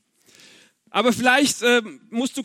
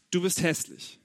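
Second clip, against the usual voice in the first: much softer, low and cold; hushed contemptuous verdict; condemning inner voice; 4 semitones lower, 8 dB quieter than usual. Acted. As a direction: say it like a voice in your head tearing you down.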